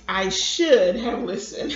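"should" leaned on loudly; stress on should. A narrator's reading. Grandfather conceding to grandson, stress on "should". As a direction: admit it, hitting "should" hard. Grandfather admits he was wrong.

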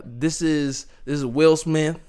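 put-on half-hearted New York accent; lightly put-on New York accent for an impression; badly faked New York star impression; crappy New York accent. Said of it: "a really crappy New York accent".

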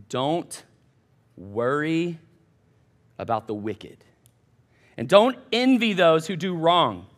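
slow, hushed reading with long pauses; scripture reading. Acted. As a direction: read it like a sacred text, one phrase at a time. Reads the psalm aloud.

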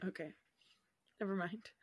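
whispered "Never mind", soft and breathless. Real, not acted. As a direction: whisper it away, embarrassed. Takes back a failed reference.

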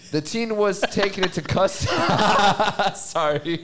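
giggling through the line; tipsy laughter breaking in. Real, not acted. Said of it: "I'm tipsy as fuck".

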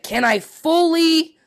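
FULLY stretched high and loud; drawn-out emphasis. Retold or imitated. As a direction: lean hard and long on "fully". Acting out friend's exaggerated question.

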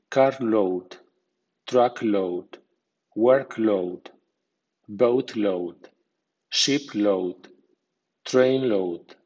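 carload with load given secondary stress, not reduced; medium stress on load. Shown as a demonstration. Teacher shows learners how to stress load words, medium stress on load. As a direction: say truckload with a clear but lighter load. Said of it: "load con acento medio, así".

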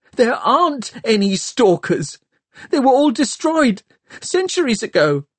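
put-on a terrified boy who can't believe it; frightened whimper. A narrator's reading. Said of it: "Tom whimpered".

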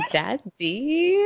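amused echo with a laugh. Real, not acted. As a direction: chuckle the word out. Laughing echo of friend's word.

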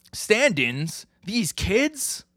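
rising, high-pitched disbelief; incredulous echo. Retold or imitated. Colleague balking at kids as stand-ins, incredulous. Other character balks at substitutes.

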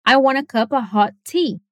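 "hot" stressed along with "want", "cup" and "tea". Shown as a demonstration. Teacher showing that the describing word gets stress too. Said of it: "Vamos falar, repete".

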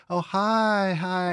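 a forced fake-friendly hello at a party; fake cheery greeting.

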